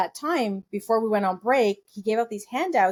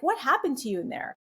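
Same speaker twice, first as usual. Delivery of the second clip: retold stern questioning, pitched higher; mildly stern, raised-pitch demand; 5 semitones higher than usual. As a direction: imitate a stern mentor demanding an answer. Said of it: "sternly was like".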